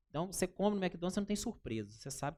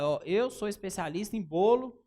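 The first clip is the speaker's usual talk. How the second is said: louder, bold self-promotion; confident claim; 6 dB louder than usual. Shown as a demonstration. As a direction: announce it proudly to a client. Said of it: "você tem que falar".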